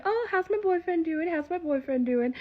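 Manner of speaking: put-on high, sweet old lady voice; high cooing church lady. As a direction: coo it like a doting granny. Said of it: "she'd be like".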